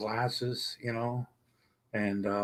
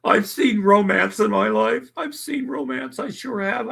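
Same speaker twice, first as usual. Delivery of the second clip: choked up; 11 semitones higher, 5 dB louder than usual. Real, not acted. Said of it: "I promised I wouldn't cry again".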